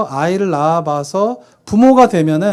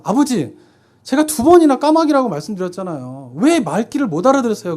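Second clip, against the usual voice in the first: retold irritation, raised pitch; mock angry son; 5 semitones higher than usual. Son losing patience with his forgetful father, mildly angry. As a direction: act out mild exasperation at a parent. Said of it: "화를 내면서".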